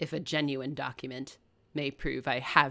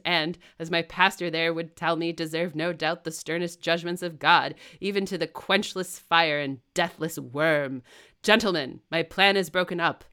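louder, hearty and defiant; reckless; 5 dB louder than usual. Acted. Rochester confesses to the wedding party, loud and reckless. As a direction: fling the truth at them. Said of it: "heartily and recklessly".

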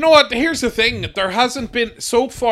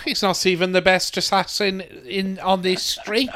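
softer, undercutting mutter; dry deflating aside; 6 dB quieter than usual. Pretend. Mocking the hero, a softer deadpan put-down. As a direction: drop it flat to puncture the boast.

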